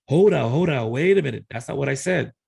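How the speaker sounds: mock-alarmed interruption; retold protest. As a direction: cut in loudly to object, imitating the son. Son objects in retold conversation.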